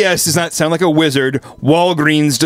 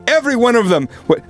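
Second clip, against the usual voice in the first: ordinary talk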